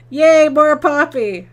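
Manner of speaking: loud, high, drawn-out yay; cheering for a viewer. Retold or imitated. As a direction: cheer it slowly like an eager fan. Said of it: "One person says".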